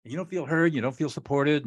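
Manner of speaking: high-pitched emphatic validation; coming in underneath. Shown as a demonstration. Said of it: "I'll come in right underneath her".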